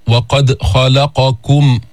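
وقد خلقكم said very slowly, the open qaf of خلقكم unbounced; tajweed demonstration. Shown as a demonstration. Teacher showing students the open qaf in خلقكم, slow recitation. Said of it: "القاف هنا مفتوحة ليست ساكنة".

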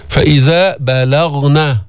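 بلغن slow, thin ب and ل, full غ; light sounds, heavy ghain. Shown as a demonstration. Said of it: "ترقيق، ترقيق، بعدين تفخيم الغين". (بلغن بترقيق ثم تفخيم الغين)

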